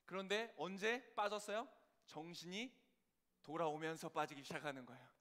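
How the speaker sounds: normal talking voice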